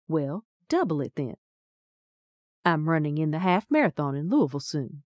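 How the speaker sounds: breathy. A narrator's reading. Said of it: "Beth Ann's voice went all breathy".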